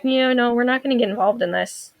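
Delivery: a nervous tech avoiding conflict with clients; timid retreat. Retold or imitated. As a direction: mumble it from the corner, avoiding trouble. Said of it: "went off in the corner".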